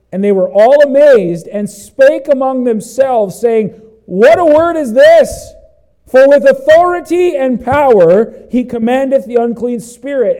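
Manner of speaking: loud, driving pulpit voice; fiery preaching. Acted. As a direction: preach it out to the whole church. Preaching at full force.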